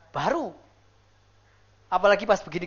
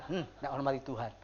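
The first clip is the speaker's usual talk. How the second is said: very low, soft reproach; gentle parental scolding; 10 semitones lower, 12 dB quieter than usual. Acted. Parent lightly smacking a crying baby, low soft scolding. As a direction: murmur a mild telling-off.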